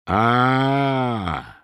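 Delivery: drawn-out sick moan; long groan. A narrator's reading. Drunk Myshlaevsky vomiting, long groan. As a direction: groan it out at length. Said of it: "со стоном откинулся".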